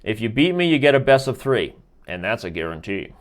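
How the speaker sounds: hammed-up sales pitch, fading at the end; slick used car salesman. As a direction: lay on the dealer charm. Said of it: "I sound like a car salesman".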